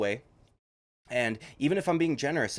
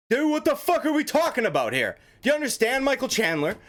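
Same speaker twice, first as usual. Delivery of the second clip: much higher, louder incredulous outburst; voice cracking; 11 semitones higher, 4 dB louder than usual. Real, not acted. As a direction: shout it in disbelief until the voice cracks. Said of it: "my voice just cracked".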